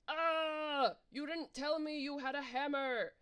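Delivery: loud, high shocked cry; worm's outcry. Acted. Hammered worm cries out at the player in loud shock. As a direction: yelp it out loud and high in outrage.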